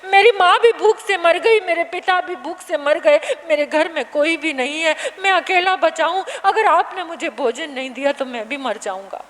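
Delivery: put-on desperate child clinging to the monk, begging for food; pleading hungry boy. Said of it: "पकड़ कर कहने लगा".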